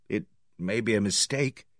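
soft, tentative murmur; feeble suggestion. A narrator's reading. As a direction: suggest it weakly, without conviction. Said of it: "I suggested feebly".

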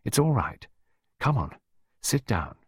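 put-on gentle coaxing of a child; short, calming phrases; soothing murmur. A narrator's reading. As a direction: settle the upset child down. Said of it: "Clarissa murmured soothingly".

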